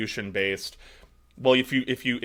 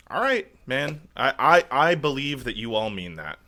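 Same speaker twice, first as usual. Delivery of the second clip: sarcastic. Real, not acted. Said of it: "I'm being sarcastic".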